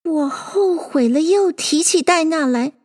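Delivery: put-on high, plaintive little girl; sorrowful. A narrator's reading. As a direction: lament your mistake in a sad voice. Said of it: "愁声说道".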